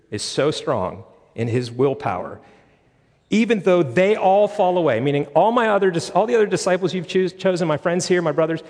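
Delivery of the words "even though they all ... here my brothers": mild boast. Acted. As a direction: voice an overconfident disciple, lightly acted. Peter boasting in retold scripture.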